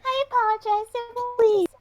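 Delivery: pleading. Acted. Begging the child to stop.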